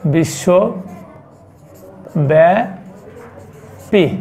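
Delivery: বিশ্বব্যাপী stretched very slowly, each syllable held; slow dictation of বিশ্বব্যাপী to the class; drawn out. Shown as a demonstration. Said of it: "globally হচ্ছে".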